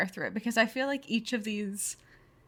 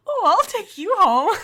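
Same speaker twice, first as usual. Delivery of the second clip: mock flirty voice; 10 semitones higher, 9 dB louder than usual. Teasing friend's taste in men.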